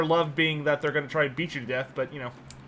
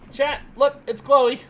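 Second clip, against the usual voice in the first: bright-eyed, higher announcement to viewers; raised, eager pet-owner voice; excited showing-off; 7 semitones higher, 4 dB louder, slower than usual. Real, not acted. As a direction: proudly show off the dog, pitched up. Shows dog to stream viewers.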